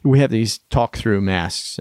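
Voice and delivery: slightly muffled by a mask; talking through a face mask. Real, not acted. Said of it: "We're actually wearing our masks right now".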